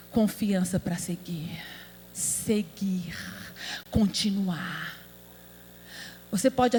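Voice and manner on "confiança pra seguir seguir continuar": soft unvoiced whisper, low. Real, not acted. Preacher whispering to the sisters about faith. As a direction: breathe the words, hushed.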